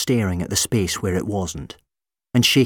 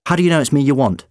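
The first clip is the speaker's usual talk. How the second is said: high anxious doctor; 6 semitones higher, 5 dB louder, much faster than usual. Acted. Doctor pleading.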